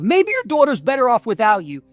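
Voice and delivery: accusing yourself, pitch climbing; rising self-blame; harsh self-talk. Retold or imitated. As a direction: turn on yourself with a list of failings. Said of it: "have that conversation with myself".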